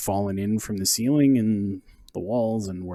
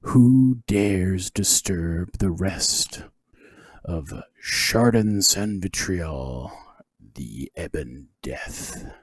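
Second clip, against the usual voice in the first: ancient rasping undead king; much slower than usual. Acted. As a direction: hiss it out like a dead king. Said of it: "a hollow voice booms from beyond".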